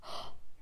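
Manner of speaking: short, soft breathy gasp; dismayed gasp. Acted. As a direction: gasp at the odds against you. Sees fifty warships.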